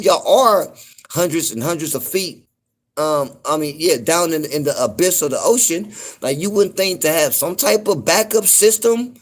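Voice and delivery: incredulous. Real, not acted. Continues incredulous rant.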